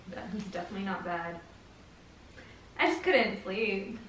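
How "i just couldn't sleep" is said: slow, drawn-out hint at more; suggestive hinting. Pretend. Prankster teasing boyfriend about her sleepless night, suggestive. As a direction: stretch it out as if hiding something. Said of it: "why, why he said it like that".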